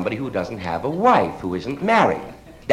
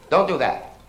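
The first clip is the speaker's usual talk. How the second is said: firm no; 4 semitones higher than usual. Acted. Stern to a crying child.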